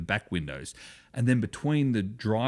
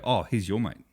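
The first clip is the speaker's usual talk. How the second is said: "your mate" with the weight on YOUR; dismissive "your mate"; 2 semitones lower than usual. Shown as a demonstration. Australian naming someone he doesn't like, dismissive. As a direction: disown him, leaning on "your". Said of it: "someone who I don't like".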